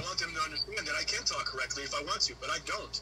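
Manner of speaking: white American accent, correctly enunciated; careful, proper white professional accent; white-sounding accent. Shown as a demonstration. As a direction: keep up the formal white-American interview voice. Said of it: "So I talk back to how I am".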